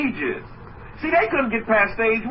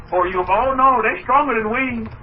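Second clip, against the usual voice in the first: a touch of mock despair on they're stronger than we; lightly voiced defeatist; fearful whining; 3 semitones higher than usual. Shown as a demonstration. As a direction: play the doubter who gives up. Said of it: "The difference between positivity and negativity".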